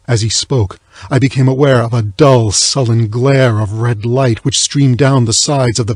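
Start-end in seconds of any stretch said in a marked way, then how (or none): none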